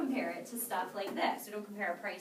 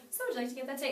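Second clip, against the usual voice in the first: confident ask; 4 semitones higher, much faster than usual. Shown as a demonstration. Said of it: "ask for the order with confidence".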